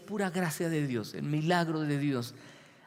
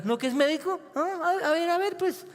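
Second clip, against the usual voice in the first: higher scoffing voice, imitating doubters; mocking scoff; 13 semitones higher than usual. People mocking a sick doctor, higher scoffing imitation. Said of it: "que la gente le diga".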